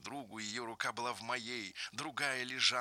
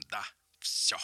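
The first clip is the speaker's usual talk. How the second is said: whisper; 2 semitones lower than usual. Acted. Whispered confession in quote.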